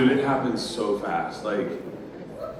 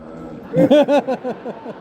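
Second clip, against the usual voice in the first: sudden high squeal on all; squeaky all right; 12 semitones higher, 6 dB louder than usual. Retold or imitated. Meeting Mickey for a photo, high squeaky excited reply.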